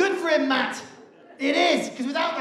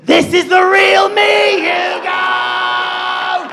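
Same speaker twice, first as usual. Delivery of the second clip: monstrous reveal; 5 semitones higher, 8 dB louder, much slower than usual. Retold or imitated. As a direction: roar the reveal. Drunk girlfriend reveal.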